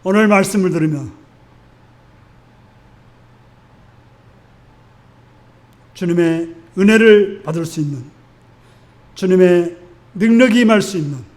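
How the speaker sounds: hushed close of a sermon, easing down at the end; prayer invitation. Real, not acted. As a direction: gently lead the congregation into prayer, leaving space between phrases. Leads congregation into closing prayer.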